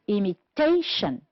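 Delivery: Imitation with TA stressed; stressed syllable shown. Shown as a demonstration. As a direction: punch TA in Imitation. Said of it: "let's first identify".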